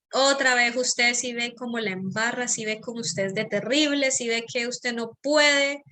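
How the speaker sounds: scolding, judgmental self-talk, lightly acted; critical inner voice. Shown as a demonstration. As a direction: nag yourself like a harsh critic. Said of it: "¿O es un tono crítico?".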